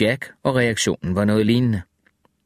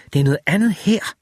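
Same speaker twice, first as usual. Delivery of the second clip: curt wife; 8 semitones higher, faster than usual. A narrator's reading. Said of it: "sagde hun".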